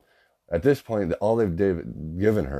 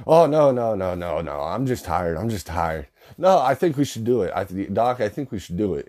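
mimicking girlfriend's sudden yelp, much higher and louder; mock panic; 4 semitones higher, 4 dB louder than usual. Girlfriend panicking about the spinal tap, mock high squeal. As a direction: squeal no then backpedal fast. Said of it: "and she's like".

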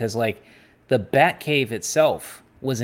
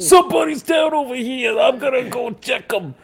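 high, whiny shout of a thug; whiny henchman voice. Retold or imitated. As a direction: whine it out like a big goon. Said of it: "just sound like the most whiny-ass dudes".

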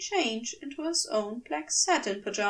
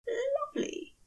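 breathed; 14 semitones higher, 5 dB quieter than usual. Acted. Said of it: "Aziraphale breathed".

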